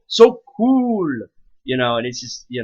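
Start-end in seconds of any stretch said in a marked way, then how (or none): 0.1-1.1 much higher, louder excited squeal; gushing fan squeal. Retold or imitated. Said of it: "me rambling about".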